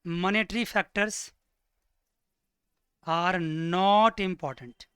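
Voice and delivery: slow, spaced words for note-taking; teacher dictating at writing speed; slow dictation. Shown as a demonstration. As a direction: dictate each word slowly to the class. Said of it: "लिख लो bracket में".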